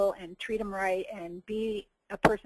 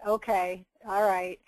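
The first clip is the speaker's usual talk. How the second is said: unexcited; slower than usual. Retold or imitated. Speaker recalls reluctantly saying affirmations about herself, unexcited. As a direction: go along with it, without much excitement. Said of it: "say 'em with not much excitement".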